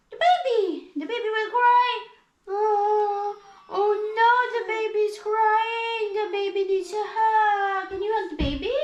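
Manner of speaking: high, sing-song mock distress; pretend crying. Mama asking the child to hug the crying baby, pretend crying. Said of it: "pretend mag-cry-cry".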